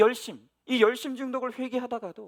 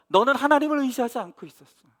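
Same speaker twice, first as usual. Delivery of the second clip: God rebuking; 3 semitones higher, 6 dB louder than usual. Retold or imitated. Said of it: "뭐라고 책망하냐면".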